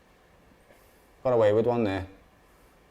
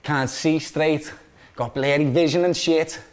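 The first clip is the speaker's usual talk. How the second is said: spent, in short separate phrases; out of breath; 4 semitones lower, 4 dB quieter than usual. Real, not acted. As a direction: recover from screaming at a goal. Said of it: "I am out of breath".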